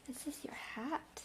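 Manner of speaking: soft whisper to the dog. Real, not acted. Whispering to her dog about his hat. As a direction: whisper it gently to him.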